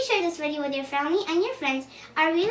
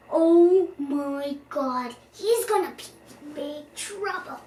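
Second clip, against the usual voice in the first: real surprise; 4 dB louder than usual. Real, not acted. Child reader reacting to Nutkin's risky jump. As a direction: gasp it out in worried shock.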